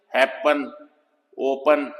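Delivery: हैपन and ओपन with a short weak schwa in the last syllable; schwa demo words. Shown as a demonstration. Teacher shows students the schwa, slowly saying each word. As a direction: say हैपन, ओपन with a tiny uh sound at the end. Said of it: "इसको श्वा sound बोलते हैं".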